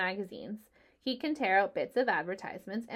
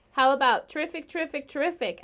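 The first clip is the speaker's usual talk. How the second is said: eager goose; 6 semitones higher, 6 dB louder than usual. Acted. Goose suggests slogan.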